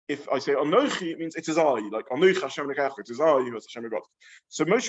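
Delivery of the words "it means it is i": "I" given the emphasis at the end; stress on I. Shown as a demonstration. Teacher explaining what anochi means, stress on "I". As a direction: land the weight on "I". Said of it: "that difference is indicated by ani or anochi".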